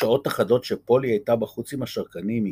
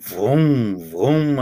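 motorbike noise; slower than usual. Acted. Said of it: "הוא נשמע כמו אופנוע".

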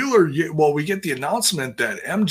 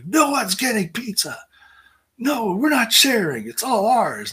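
much higher mock voice, childishly possessive; mock greedy wrestlers; 10 semitones higher than usual. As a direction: squeak it like kids guarding snacks. Voicing wrestlers hoarding pizza.

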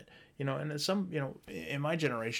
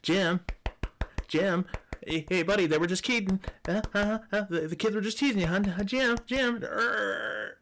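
high, loud pleading wife at the door; wife pounding on the door, frantic shouting; 8 semitones higher, 7 dB louder than usual. Retold or imitated. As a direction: call through the door in a panic. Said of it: "his wife is pounding on the door going".

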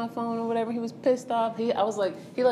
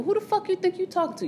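sharply pitched-up furious question; mock angry outburst; 12 semitones higher than usual. Boyfriend cursing at her outside the liquor store, mock angry. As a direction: fire it at her like he did.

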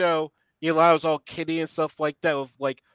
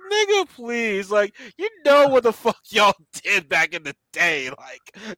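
higher-pitched exasperated retort; mock indignation; 5 semitones higher than usual. Viewer scoffing at Yelena's grievance, exasperated and high. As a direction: dismiss her in disbelief.

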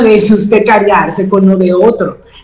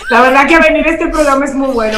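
laughing while talking; 4 semitones higher than usual. Real, not acted.

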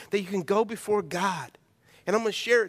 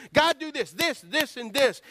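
demanding shopping list; 5 semitones higher than usual. Retold or imitated. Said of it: "start giving God a shopping list".

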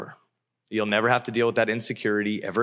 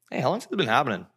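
unhurried, casual question; super calm; 3 semitones higher, much faster than usual. Retold or imitated. Jesus asking a dad about his seizing son, super calm. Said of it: "Jesus is super calm".

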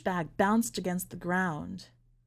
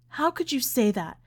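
raised, anguished outcry, building on the repeat; screamed; 6 semitones higher, 5 dB louder than usual. A narrator's reading. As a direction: cry out in disbelief, higher and louder. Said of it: "she screamed".

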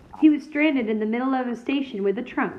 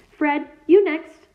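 calling out; 5 semitones higher, 6 dB louder, slower than usual. A narrator's reading. Mother calling her sons.

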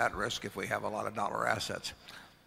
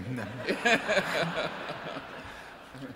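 nervous laugh; 5 semitones higher than usual. Real, not acted. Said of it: "That sounds like kind of a nervous laugh".

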